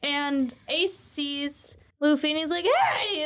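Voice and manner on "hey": excited shout. Retold or imitated. Ace spots his brother and shouts a greeting. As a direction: call out across the room to your little brother.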